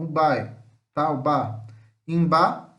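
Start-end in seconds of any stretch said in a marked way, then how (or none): 2.1-2.7 IMBA run together as one unit; teacher's firm, joined Imba; joined syllable. Shown as a demonstration. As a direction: join the I straight onto BA in Imba. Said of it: "o I vai ficar junto".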